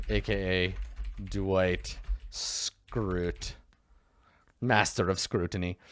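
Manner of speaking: slow, drawn-out dramatic title; slow mock-epic reveal; grand announcement. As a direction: unveil the name like a big reveal. Announcing new character name dramatically.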